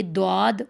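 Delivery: دواد starting on a d with a w glide; wrong dwaad. Shown as a demonstration. Teacher warns of another mistake, دواد with d and w. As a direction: say دواد as "dwaad", lips rounding. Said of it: "یہ دواد بھی غلط ہے".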